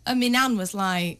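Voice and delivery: ordinary talk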